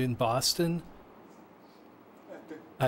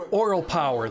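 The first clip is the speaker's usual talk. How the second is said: slogan proclaimed; 4 semitones higher, 5 dB louder than usual. Retold or imitated. Reading the slogan on the shirt.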